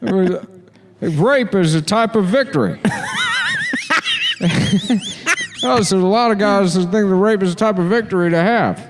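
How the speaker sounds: high voice drenched in reverb; echo chamber voice. Acted. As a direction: talk high into a cavern echo. High echoed.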